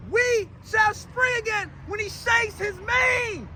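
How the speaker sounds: slow, drawn-out proclamation without the volume; measured preaching repeat. Acted. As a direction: stretch each word deliberately. Repeats the line for effect.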